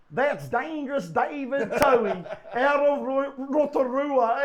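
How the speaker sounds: slow, drawn-out hyped introduction with a laugh; TV commentator impression. Commentator introducing a fan on screen, imitated drawn-out announcement. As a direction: imitate a commentator stretching out the big name. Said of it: "Uh, he goes".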